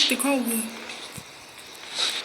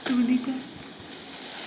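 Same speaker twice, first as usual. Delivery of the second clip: whispering; 7 dB quieter, much slower than usual. Real, not acted. Sneaking through the house.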